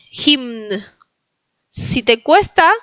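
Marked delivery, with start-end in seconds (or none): 0.1-0.8 "Hymn" as jimn, final n audible; M and N pronounced. Shown as a demonstration. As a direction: model "Hymn", humming m into n. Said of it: "se pronuncia la M y la N". ("Hymn" con eme y ene)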